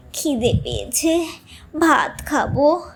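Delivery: drawn-out, hungry grandfather; frail old man pleading. Acted. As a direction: whimper for rice.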